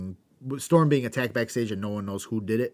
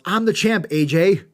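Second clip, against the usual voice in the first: higher and louder wrestler bellow; mock yell; 6 semitones higher, 7 dB louder than usual. Host retelling champion yelling at a rival, mock shout. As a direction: bark it at a rival, hammed-up. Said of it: "And Roode yells".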